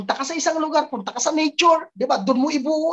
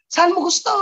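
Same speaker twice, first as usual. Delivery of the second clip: much higher, strained mock yell; 11 semitones higher than usual. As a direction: joke it out like a frustrated outburst. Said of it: "alam mo yung sigaw". (pabirong sigaw, mataas ang boses)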